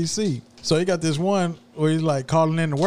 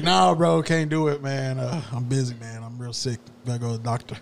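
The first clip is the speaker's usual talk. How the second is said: fake sick caller; 3 semitones lower than usual. Worker calling in to his manager, mildly faking sick. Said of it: "he's like".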